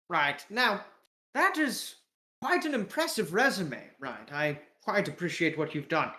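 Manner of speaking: appraise politely as a British caricature; British accent. Acted. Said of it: "with a British accent".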